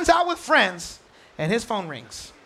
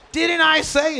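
louder, higher mock scolding; exasperated parent; 4 semitones higher, 5 dB louder, slower than usual. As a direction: complain like a frustrated parent. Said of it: "You're like".

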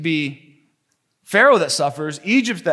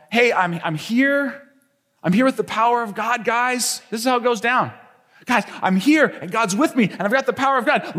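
higher, quick show-off patter; swaggering Moses; 5 semitones higher than usual. Acted. Moses boasting to the people about God's power, cocky and raised. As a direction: brag like a kid with new tricks. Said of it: "Moses shows up and says".

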